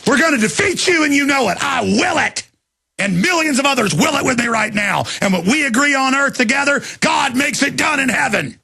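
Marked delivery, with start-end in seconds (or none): 5.2-8.6 higher, shouted proclamation; fervent shout. Real, not acted. Host proclaiming God is on his side, fervent shout. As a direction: proclaim it like a preacher.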